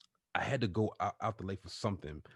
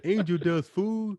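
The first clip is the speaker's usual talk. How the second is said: laughing; 11 semitones higher, 9 dB louder, slower than usual. Real, not acted. Joking he looked on PCP.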